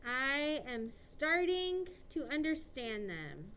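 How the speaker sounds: slow dictation. Shown as a demonstration. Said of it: "slow dictation".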